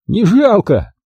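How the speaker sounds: high, exultant call; triumphant taunt. A narrator's reading. Max mocks the threat to shoot, triumphant. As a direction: crow it at a high pitch. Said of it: "торжествующе хохотнул Макс".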